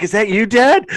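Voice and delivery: joking quote. Retold or imitated. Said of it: "I was like".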